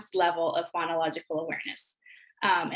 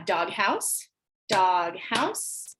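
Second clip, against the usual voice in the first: clapping syllables; 2 semitones lower, much slower than usual. Shown as a demonstration. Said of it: "clap syllables".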